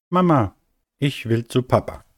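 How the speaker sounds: hohe, bittende Kinderstimme; kindlicher Babystern. Acted. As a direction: wie ein kleines Kind, das zum Papa will. Kleiner Stern bittet Mama. (kindlich bittend)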